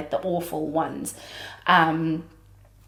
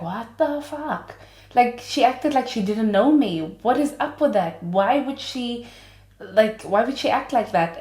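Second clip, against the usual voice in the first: indignant confusion; 5 semitones higher than usual. Retold or imitated. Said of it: "and he's like".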